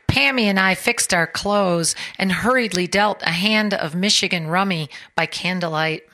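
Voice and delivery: measured reading voice for a short story; story narration. Acted. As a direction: read the story to the audience, steady and clear. Author reads her story aloud.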